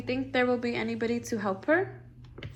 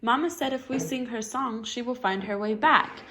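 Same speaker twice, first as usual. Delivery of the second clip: Pink crying. Acted. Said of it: "cried Pink".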